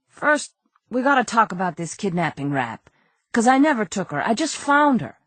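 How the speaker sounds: high, pleading small-time crook; a nervous crook begging his innocence; whiny crook voice. Acted. Nervous crook pleading with detective Andy, high and whiny. Character voice.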